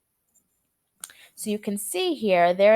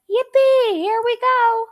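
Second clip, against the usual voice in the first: very high, loud, thrilled whoop; gleeful old man; 7 dB louder, slower than usual. A narrator's reading. Grandpa Joe whooping as the elevator rockets up, high and loud. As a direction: cheer like on a roller coaster.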